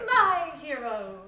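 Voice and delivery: high, loud, slow swoon; swooning damsel. Acted. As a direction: sigh it out adoringly.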